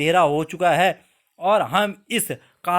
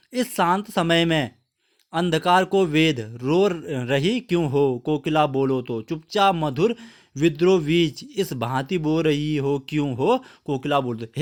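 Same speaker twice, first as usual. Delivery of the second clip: poem recitation; 2 semitones lower than usual. Acted. (धीमे, गंभीर कविता पाठ)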